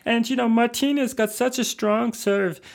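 mid-Atlantic tennis player voice; mid-Atlantic accent. Retold or imitated. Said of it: "develop this mid-Atlantic accent where they go".

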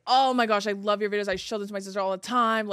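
lightly voiced excited fan; gushing fan. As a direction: retell the fan's excitement.

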